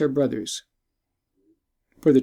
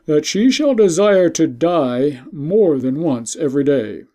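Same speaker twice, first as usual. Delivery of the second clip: a hint of a harsh emperor, louder and commanding; stern emperor; 3 semitones higher, 5 dB louder than usual. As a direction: pronounce the sentence like a cold ruler. Emperor pronouncing sentence.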